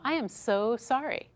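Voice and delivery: slow, heartfelt I am so sorry; mean every word of the apology, slowly; sincere apology. Shown as a demonstration. Trainer demonstrating a sincere apology to an upset guest, slow and heartfelt. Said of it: "we just want them to feel better".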